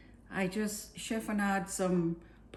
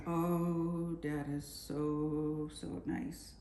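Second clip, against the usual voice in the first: slow savoring; much slower than usual. Real, not acted. Savoring the dish.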